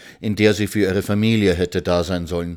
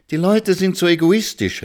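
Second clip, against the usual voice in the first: high, louder indignant exclamation; exclaimed; 11 semitones higher, 4 dB louder than usual. A narrator's reading. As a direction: cry it out, outraged at people. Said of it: "rief Frau Schimanski aus".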